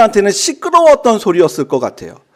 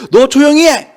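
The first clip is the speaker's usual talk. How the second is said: higher-pitched mock rebuke; retold scolding; 6 semitones higher, 3 dB louder than usual. Bystanders hushing the shouting blind man, retold scolding. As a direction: imitate bystanders telling someone off. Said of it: "막 꾸짖습니다".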